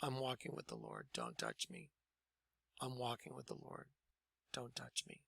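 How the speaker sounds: hushed, low, barely audible; very calm. Retold or imitated. Newly saved man warding off Lou's touch, very calm and hushed. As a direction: repeat it calmly under your breath. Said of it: "very calmly just said".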